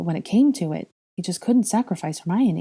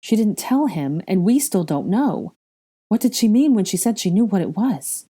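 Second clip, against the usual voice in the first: raised, emphatic puzzlement; disbelief; 4 semitones higher, 4 dB louder than usual. Acted. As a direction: press the question, baffled. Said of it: "said in disbelief".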